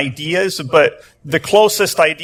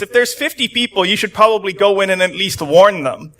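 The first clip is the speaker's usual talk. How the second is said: a lightly voiced Abraham, pitched up and pressing; bold Abraham; 2 semitones higher than usual. Preacher voicing Abraham challenging God, mildly raised and pleading. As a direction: push back on God, half pleading. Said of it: "here's a little bit of the Abraham saying".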